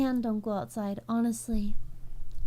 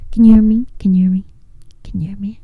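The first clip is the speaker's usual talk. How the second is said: breathy mic-check whisper; 8 semitones lower, 14 dB louder, faster than usual. Pretend. Streamer whispering to chat to check audio. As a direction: hush it like testing the mic.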